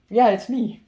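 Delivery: high, loud answer to a call; imitating startled reply. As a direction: act out answering someone across the room. Answering a call from far away.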